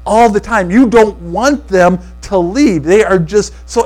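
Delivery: slow, emphatic gushing as the excited friend; giddy imitation. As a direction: stretch the words out with giddy delight. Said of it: "you see how I am right now?".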